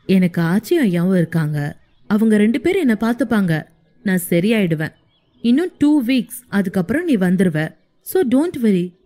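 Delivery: hero gently comforting his wife; lightly voiced young man reassuring. (தாழ்ந்த ஆண் குரலில் ஆறுதல்)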